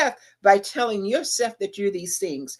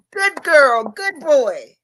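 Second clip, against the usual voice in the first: high, louder cheering praise; praising parent; 5 semitones higher, 7 dB louder, slower than usual. Retold or imitated. Parent cheering a toddler who just stood up, high excited praise. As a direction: cheer the toddler on, bright and big.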